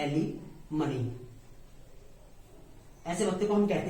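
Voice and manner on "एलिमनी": एलिमनी drawn out slowly, part by part; slow word demonstration. Shown as a demonstration. Teacher models the term for learners, slow and broken up. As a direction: break एलिमनी into slow, separate parts, pitched lower. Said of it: "क्या बोलते हैं".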